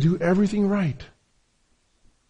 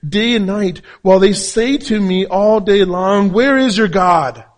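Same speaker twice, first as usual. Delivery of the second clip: raised, emphatic preaching voice; forceful scripture reading; 5 semitones higher, 7 dB louder, slower than usual. Acted. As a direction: read the verse out to the congregation, drawing out the final question.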